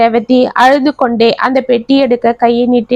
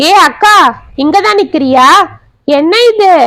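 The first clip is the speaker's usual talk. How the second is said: surprised call; 5 semitones higher than usual. Acted. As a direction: call out in shock, catching them together. Brother catches them together.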